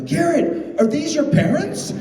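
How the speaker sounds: high mock fan voice; imitating a puzzled fan; quoting a fan. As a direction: ask it wide-eyed and high. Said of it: "He goes".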